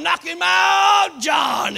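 loud, slow, drawn-out cheer; men below cheering John on, hollering. Retold or imitated. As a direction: bellow it up the tree. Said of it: "they're hollering".

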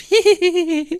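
very high, loud imitated giggle; crisp stoner laugh. Stoned kid about to read aloud, crisp high giggle. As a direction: squeal out a crisp mock laugh. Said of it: "starts off with a, like, a crisp".

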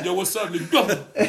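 slow, drawn-out mock greeting through laughter; laughing mock slang. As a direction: stretch it out while laughing. Mocking wigger greeting again.

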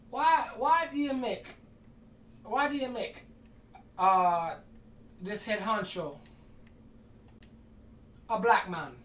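high, loud disbelieving question; incredulous friend. Retold or imitated. Friend questioning the narrator's pirate captain, incredulous. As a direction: ask it like you can't believe what he did.

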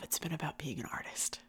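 tender hushed whisper. Real, not acted. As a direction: breathe it softly and tenderly. Tender reveal to listeners.

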